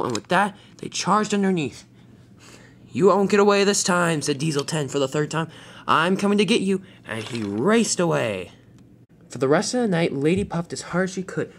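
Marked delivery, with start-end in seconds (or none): 2.9-4.2 loud, high villain threat; full-voiced storybook baddie; menacing villain. Villain Diesel threatens in chase. 5.9-6.8 loud, high villain threat; full-voiced storybook baddie; menacing villain. Villain Diesel threatens in chase.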